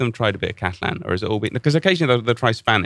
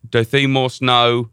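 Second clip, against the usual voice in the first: put-on slow, imperfect English-accented Spanish; 3 dB louder, slower than usual. Singer telling the crowd in Spanish, imperfect accent. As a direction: imitate a singer carefully attempting Spanish. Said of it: "wasn't, wasn't great".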